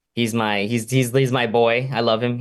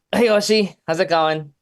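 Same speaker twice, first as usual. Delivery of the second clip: higher, sing-song greeting to the dog; pet talk; 4 semitones higher than usual. Real, not acted. Owner greets his Shiba Inu in a higher pet-talk voice. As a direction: call out sweetly to the little dog.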